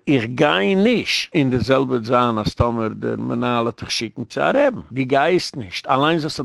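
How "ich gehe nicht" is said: very slow, measured refusal; firm refusal. Acted. Coaching a child to refuse the rebbe, slow firm refusal. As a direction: draw the words out, spacing each one.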